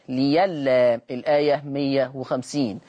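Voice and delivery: ليلا said slowly with the ya clearly replacing the hamza; slow teaching voice on ليلا; slow demo of ليلا. Shown as a demonstration. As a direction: stretch out ليلا for the students. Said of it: "يقرأ ليلا".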